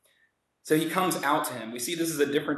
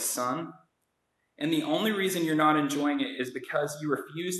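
gentle father. Retold or imitated. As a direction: plead with him tenderly. Quoting Capone as the father.

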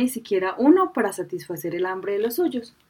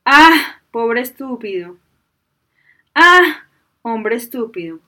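irritated genie roar; 2 semitones higher, 8 dB louder, slower than usual. A narrator's reading. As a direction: explode at the stubborn fool. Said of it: "El genio ya estaba irritado".

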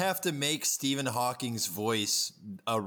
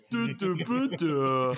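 high, loud grunting caveman; 4 semitones higher, 4 dB louder than usual. Retold or imitated. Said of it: "was like".

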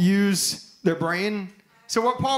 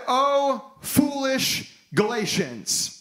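slow, higher, stern rebuke; righteous anger; 4 semitones higher, much slower than usual. Acted. Paul rebuking the Galatians, slow righteous anger. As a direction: scold them like a disappointed apostle. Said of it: "the righteous anger of the Apostle Paul".

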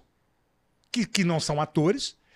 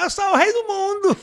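put-on loud, high Ceará accent; 13 semitones higher, 6 dB louder than usual. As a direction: belt it out in a cearense accent. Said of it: "Titanic dublado no Ceará".

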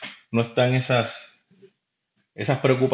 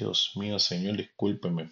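mock apology; 3 semitones lower, 6 dB quieter, slower than usual. Horrified apology to class.

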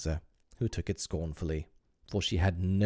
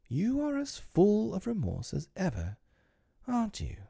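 timid wife; 13 semitones higher than usual. Acted. Wife timidly questioning George's remorse. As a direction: ask gently, afraid of the answer. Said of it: "she said timidly".

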